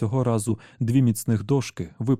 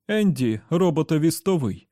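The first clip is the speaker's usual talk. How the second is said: Eddie bellowing; 6 semitones higher than usual. Acted. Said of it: "прогорлав Едді".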